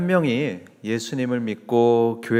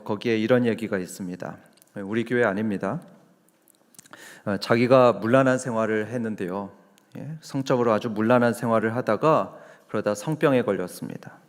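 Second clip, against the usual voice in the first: ordinary talk, nothing marked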